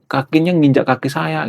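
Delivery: high, polite Sundanese mock complaint; imitasi Sunda lembut. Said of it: "Ngomongnya lembut banget". (menirukan orang Sunda menegur dengan lembut)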